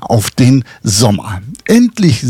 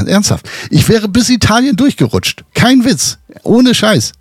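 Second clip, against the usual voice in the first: higher, swearing it's no joke; worked-up insisting; 6 semitones higher than usual. Real, not acted. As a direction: push it up, pleading to be believed.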